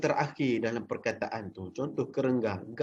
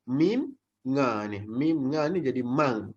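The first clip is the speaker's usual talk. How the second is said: slow spelling out; slower than usual. Shown as a demonstration. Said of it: "spelling out letters".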